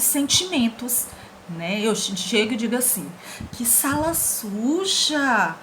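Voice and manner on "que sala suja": slow, drawn-out mock exclamation. Shown as a demonstration. Teacher shows the exclamation mark, demonstrated exclamation. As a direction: exclaim it, stretching the words. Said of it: "a tia tá expressando o sentimento dela".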